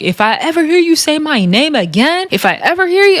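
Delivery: mock threat. Recapper acting out castmate threatening Natalie, mock threat. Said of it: "She's literally threatening her".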